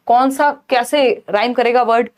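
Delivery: usual speaking voice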